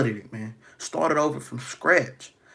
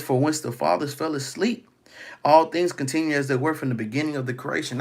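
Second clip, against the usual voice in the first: scripture reading. Acted. Reads scripture aloud.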